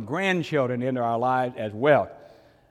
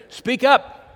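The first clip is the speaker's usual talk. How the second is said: high, loud call to speak up; mock shout; 10 semitones higher, 8 dB louder than usual. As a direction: urge him loudly to talk. Urging quiet brother to talk.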